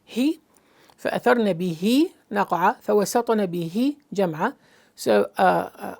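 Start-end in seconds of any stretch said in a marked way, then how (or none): 1.0-4.5 recite, pointing out the final syllable of بِهِ; stress on بِهِ. Shown as a demonstration. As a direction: lift the end of بِهِ, then a short break. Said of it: "the ha, ha, he".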